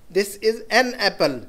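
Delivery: very slow, "an" picked out; stress on "an". Shown as a demonstration. Teacher explaining the indefinite article, slowly marking "an". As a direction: separate the article "an" before apple. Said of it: "एन या ए जो लगा रहे हैं".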